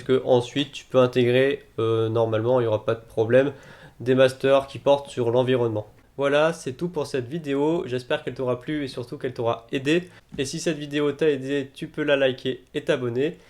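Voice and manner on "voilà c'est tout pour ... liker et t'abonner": flat, mechanical robot-like delivery. Real, not acted. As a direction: recite it like a robot, no life. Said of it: "Je parle comme un robot". (voix de robot)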